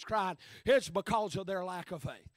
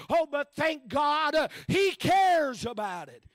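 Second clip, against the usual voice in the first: loud, rhythmic preaching build; rising whoop of a preacher; full-force preaching; 2 semitones higher, 3 dB louder than usual. Acted. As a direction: drive each line home to the congregation.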